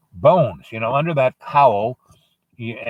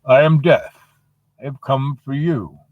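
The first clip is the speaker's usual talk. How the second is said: lightly acted grim reaper, slowing down; Death announcing himself; 3 semitones higher, 3 dB louder than usual. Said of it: "And he goes".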